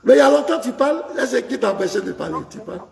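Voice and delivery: heated. Real, not acted. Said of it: "calmez-vous".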